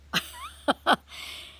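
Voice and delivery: high-pitched stunned stutter of breath; shocked noise. Retold or imitated. Woman acting out her shock at the bird, stunned squeak. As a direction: imitate being speechless with shock. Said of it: "I'm in shock".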